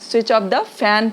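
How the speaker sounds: very slow, clearly separated words; slow teaching demo. Shown as a demonstration. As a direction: model it slowly for the class. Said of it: "please बोल दीजिए".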